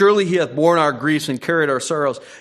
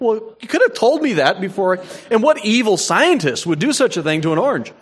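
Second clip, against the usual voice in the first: mock indignation; 9 semitones higher, 6 dB louder than usual. Mock complaint about bad orange.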